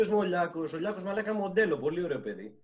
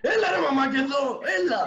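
high laughing call to mum, much louder; laughing mock call; 10 semitones higher, 7 dB louder than usual. Teasing friend calls to his mum, laughing. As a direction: call out to mum while cracking up. Joking mum walked into the room.

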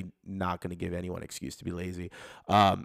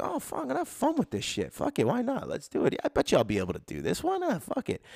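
eager excitement; 12 semitones higher than usual. Retold or imitated. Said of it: "you're like, you're like".

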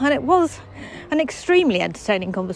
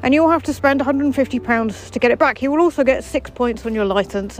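hammed-up officer, "Seized" punched higher; mock-official policeman listing penalties; 3 semitones higher than usual. Officer warns the vlogger about fines and points, mock-stern. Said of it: "you have to do a police officer voice".

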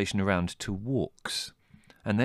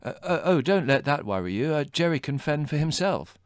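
put-on higher, flustered eager young man; eager suitor; 7 semitones higher than usual. A narrator's reading. Adrian abandoning Jerry for Margot, eager. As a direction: stumble over yourself to accept. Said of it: "callous indifference".

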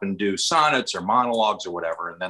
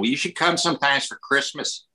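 lightly put-on Chicago accent, a little higher; a touch of mock Chicago Midwest; 4 semitones higher than usual. Shown as a demonstration. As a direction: invite someone over in a mild Midwestern accent. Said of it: "Midwest here is sort of like".

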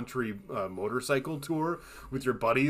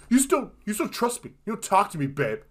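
mock husband; 7 semitones higher, 4 dB louder than usual. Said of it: "and he goes".

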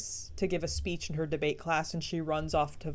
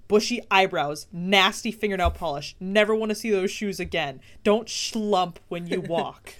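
stern grandma critique; 5 dB louder than usual. Retold or imitated. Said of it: "She's like".

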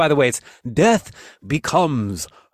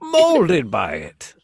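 Bane quote, slow; 3 dB louder, much slower than usual. Retold or imitated. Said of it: "continues Bane line".

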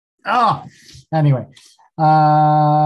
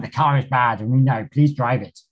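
put-on rubbish Australian accent; 2 semitones lower than usual. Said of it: "a really rubbish Australian accent".

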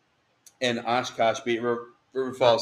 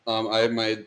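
hiccups; 3 dB louder than usual. Real, not acted. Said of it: "I have the hiccups right now".

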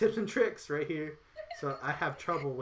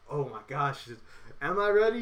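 flustered panic; 5 dB louder than usual. Retold or imitated. Panicked self-talk before class.

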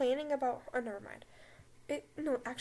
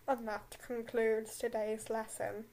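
slow, lower haughty professor drawl; Snape voice; 3 semitones lower than usual. Acted. Snape dismissing the class, slow lower drawl. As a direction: draw out the lesson's end like a cold teacher. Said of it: "I'm gonna do a Snape voice".

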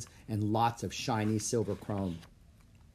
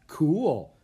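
pleased, punched 'cool' with a grin; delighted kid's approval; grinning approval; 5 semitones higher, 6 dB louder than usual. A narrator's reading. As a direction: say it through a grin, higher and louder. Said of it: "Jack said with a grin".

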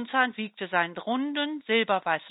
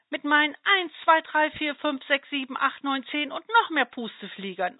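proud counting; 5 semitones higher than usual. Acted. Dandelion proudly counts its seeds.

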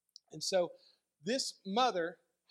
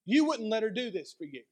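higher and louder, scandalized protest; indignant accusers; 4 semitones higher, 6 dB louder than usual. Retold or imitated. Pharisees protesting to Jesus about the woman, loud and scandalized. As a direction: rise with disgust at each if. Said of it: "they go to Jesus".

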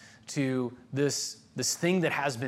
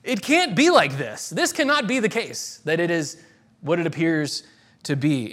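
incredulous disbelief. Retold or imitated. Preacher voicing Esau's disbelief to the congregation, mock incredulous. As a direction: protest that it simply can't be so. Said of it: "the sense of, of being like".

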